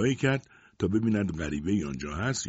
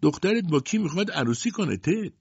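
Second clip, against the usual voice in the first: much higher, thin needling question; 9 semitones higher than usual. A narrator's reading. Hidden man in the crowd taunts Ted, thin high voice. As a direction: hide behind a squeaky mock voice. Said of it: "با صدای نازکی پرسید".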